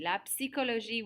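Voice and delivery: "psychologie" with an audible P before the S; sounded P. Shown as a demonstration. Teacher reminds class of the French word, P sounded in "psychologie". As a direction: pronounce the P in "psychologie". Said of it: "we do pronounce that P".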